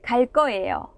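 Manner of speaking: 갈 거예요 with 거 tensed to 꺼; tensed consonant demo. Shown as a demonstration. Teacher models 갈 거예요 for learners, tensed 꺼. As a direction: say 갈 거예요 as 갈 꺼예요, doubled k. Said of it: "phát âm theo cô Kim".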